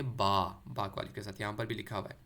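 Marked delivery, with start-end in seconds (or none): 0.0-0.5 با with a long open "aa"; Arabic letter name. Shown as a demonstration. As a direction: say با as "baa", not "bay". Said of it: "عربی میں کیا پڑھیں گے".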